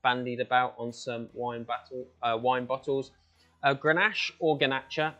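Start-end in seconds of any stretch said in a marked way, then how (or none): 3.6-5.1 Grenache said French then Spanish, "Grenache" then "Grenache"; two pronunciations. Shown as a demonstration. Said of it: "it's the same thing".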